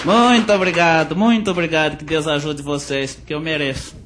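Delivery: lightly voiced country bumpkin accent; caipira country accent. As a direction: play a hint of a rural caipira comic. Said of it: "Caipira Barnabé".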